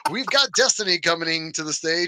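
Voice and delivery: strip club DJ voice. Retold or imitated. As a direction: hype the crowd like a strip club DJ. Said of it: "my old strip club D J voice".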